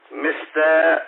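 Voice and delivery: slow, drawn-out mock Japanese; slow mock Japanese hello; mock Japanese greeting. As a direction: stretch the greeting like a caricature.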